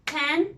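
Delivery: "panda" in two beats with a gap; split into syllables. Shown as a demonstration. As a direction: break "panda" into pan, da. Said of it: "we divided the word into two".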